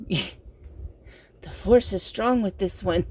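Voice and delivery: slow, breathy movie-quote voice; Star Wars quote voice. Retold or imitated. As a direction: slowly intone it like a Jedi. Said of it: "He's like".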